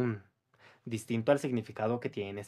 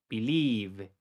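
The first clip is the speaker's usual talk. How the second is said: whisper; 4 semitones lower, 3 dB quieter than usual. Shown as a demonstration. Pronunciation drill, word echoed.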